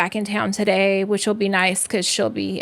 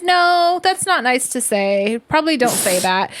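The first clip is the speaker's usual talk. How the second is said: firm correction; 2 semitones higher than usual. Retold or imitated. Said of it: "And I said".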